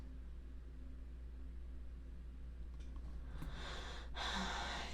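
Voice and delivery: long, soft breathy sigh. Acted. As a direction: let out a slow, quiet sigh before conceding. Pausing before conceding a point.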